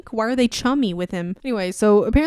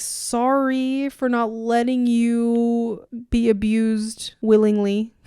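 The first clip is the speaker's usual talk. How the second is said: slow, drawn-out mock apology; acted sarcastic sorry; 2 semitones higher, slower than usual. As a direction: drag out a sorry you don't mean.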